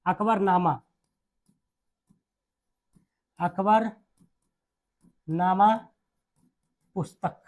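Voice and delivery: long pauses between words; dictation. Real, not acted. Teacher giving students a book name, paced dictation. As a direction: dictate it for note-taking.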